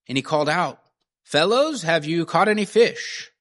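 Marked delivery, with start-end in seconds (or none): 1.2-3.3 high, louder call across the water. Acted. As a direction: hail the boat from the shore. Jesus calls from the beach.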